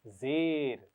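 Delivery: ज़ेर said clearly with a falling tune; ज़ेर spoken slowly as a model; teacher model word. Shown as a demonstration. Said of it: "इसका नाम है".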